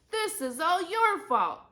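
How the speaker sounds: high, loud accusation; angry shout. A narrator's reading. Mom blaming a rival mom, shouting. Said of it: "Andrea's mom shouted".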